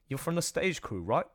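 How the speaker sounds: put-on tentative, unsure Canadian accent; attempted Canadian accent. Trying the stage crew line, unsure Canadian accent. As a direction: try a light Canadian accent. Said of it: "I don't know how Canadian sounds".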